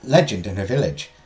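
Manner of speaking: measured, lilting legend narration; storytelling teacher. Acted. Teacher tells students of the forbidden garden, storytelling. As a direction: tell the legend to a class with care.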